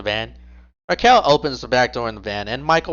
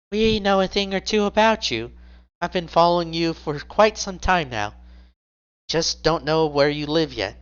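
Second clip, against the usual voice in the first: higher, smug and teasing; smirking taunt; 5 semitones higher than usual. Acted. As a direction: gloat at him with a smirk. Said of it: "she smirks".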